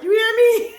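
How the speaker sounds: high, loud laugh breaking through the words; cracking up mid-question. Real, not acted. Laughing at Daniel Craig's accent.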